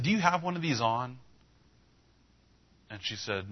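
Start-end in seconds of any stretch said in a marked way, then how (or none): 0.0-1.2 high, lifted question; curious question. Retold or imitated. Preacher quizzing the shop clerk, curious. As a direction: ask it with a high, rising lilt.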